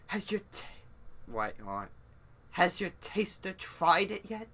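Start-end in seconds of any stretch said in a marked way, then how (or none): 0.1-0.6 higher character voice. Acted. Voicing worried character in game. 2.5-4.5 lightly pitched-up, concerned character; higher character voice. Acted. Reader voicing a character asking about the drink, higher voice.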